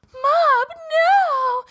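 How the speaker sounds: high, loud panicked shout of a brother; frantic cry. Retold or imitated. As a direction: yell to stop him in alarm. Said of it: "his brother runs in and is like".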